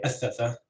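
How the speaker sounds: Athatha, first syllable stressed. Shown as a demonstration. Lecturer giving a second example, athatha stressed on first syllable. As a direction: put the stress on the opening A of athatha. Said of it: "with stress on the first syllable as well".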